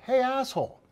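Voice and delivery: angry parent. Retold or imitated. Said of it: "be like".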